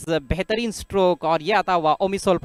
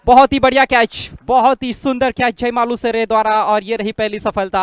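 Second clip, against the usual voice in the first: loud, high call of the catch; excited cricket commentary; 3 semitones higher, 5 dB louder than usual. Real, not acted. Catch taken, first wicket. (जोशीली cricket commentary)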